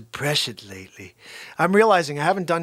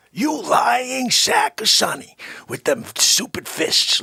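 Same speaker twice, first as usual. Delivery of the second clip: mock angry; 5 semitones higher, slower than usual. Insulting Sonny.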